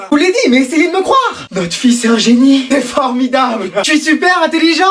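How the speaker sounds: triumphant excitement. Acted. Son triumphs.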